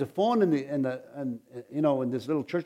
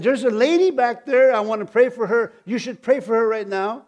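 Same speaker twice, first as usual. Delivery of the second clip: retold divine voice; 7 semitones higher, 6 dB louder than usual. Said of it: "I heard the Lord speak to me".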